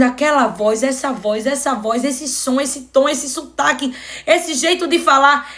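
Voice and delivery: acted realization, pitch climbing phrase by phrase; dawning recognition. Healed blind man recognizing the voice that spoke to him, mounting realization. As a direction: build from murmured recognition to growing certainty. Acts man piecing together a known voice.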